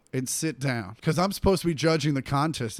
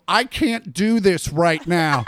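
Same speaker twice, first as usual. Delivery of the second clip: laughing; 7 dB louder, slower than usual. Retold or imitated. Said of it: "I go".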